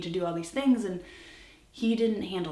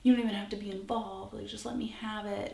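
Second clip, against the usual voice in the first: higher-pitched imitation of begging; mock desperate begging in a raised voice; retold pleading; 5 semitones higher than usual. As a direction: plead urgently, without real tears. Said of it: "was begging me and crying".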